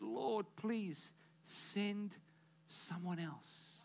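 a small defeated plea, trailing to almost nothing; meek plea. Acted. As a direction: shrink away, barely voicing it. Moses begs, defeated.

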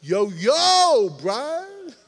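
a hint of a laid-back street greeting; casual God voice. Preacher voicing God greeting him. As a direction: toss it off like a buddy. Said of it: "in the Brian Adams translation".

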